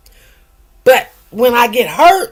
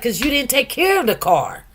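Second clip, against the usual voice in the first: incredulous scolding; 5 semitones higher than usual. Retold or imitated. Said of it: "I was like".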